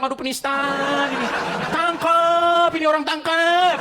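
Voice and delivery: hammed-up outraged accuser crying tangkap; mocking accuser. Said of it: "Jangan kau bilang". (tiruan penuduh yang berteriak minta tangkap)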